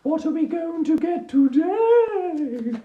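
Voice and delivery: high, sing-song ooh before the card draw; excited anticipation. Real, not acted. Picking the weekly quote card for viewers, high and excited.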